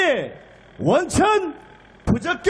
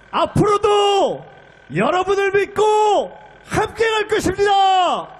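rousing shouted pledge; 3 semitones higher than usual. Real, not acted. Closing rally pledge.

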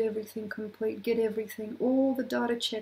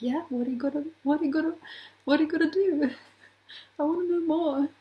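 rising, louder, pushy questions; eager pestering; 5 semitones higher, 4 dB louder, faster than usual. Retold or imitated. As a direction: badger them for the plan, getting louder. Eager people pressing for plans.

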